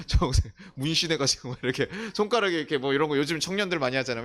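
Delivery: amused laughing. Real, not acted. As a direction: lively talk breaking into laughter. Joking about a tattooed pastor, laughing.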